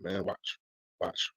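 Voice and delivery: ordinary talk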